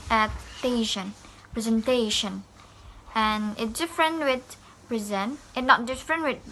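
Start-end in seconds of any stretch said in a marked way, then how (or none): 0.1-2.4 "presentation" with weight on TA; stress near the end. Shown as a demonstration. Teacher showing late stress in the word, stressed "presenTAtion". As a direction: lean on the "-ta-" of "presentation". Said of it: "the last of the words".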